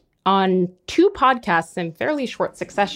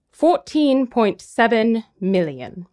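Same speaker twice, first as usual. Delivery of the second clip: Sotheby's auctioneer. Retold or imitated. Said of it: "the Sotheby's is more like".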